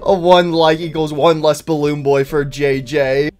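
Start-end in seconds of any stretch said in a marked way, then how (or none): 0.0-0.0 laughing. Acted. Laughing group characters.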